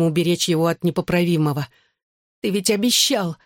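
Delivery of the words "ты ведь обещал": higher, weak reproach; slurred, barely articulate. A narrator's reading. Injured sister reminds brother, weakly slurred plea. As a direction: plead as if the tongue barely moves. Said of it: "едва ворочая языком".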